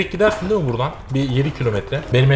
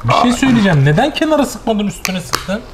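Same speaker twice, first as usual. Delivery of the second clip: mock complaint; 8 semitones higher than usual. Real, not acted. Mock complaint about the sauce.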